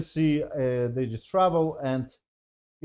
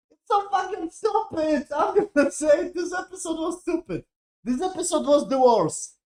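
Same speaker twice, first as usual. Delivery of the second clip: exasperated rant; 13 semitones higher than usual. Real, not acted. Ranting about the episode.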